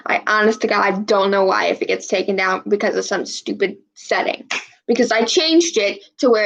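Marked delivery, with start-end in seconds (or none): 0.1-4.5 hushed frustrated whisper. Real, not acted. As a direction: whisper it under your breath. Frustrated aside, unvoiced.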